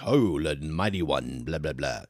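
hammed-up low heroic blah-blah; mock Thor voice. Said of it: "I like when you do your voice".

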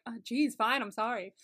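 grudging, offhand mock apology; insincere apology. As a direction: imitate a reluctant sorry, tossed off. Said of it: "he made it sound so insincere".

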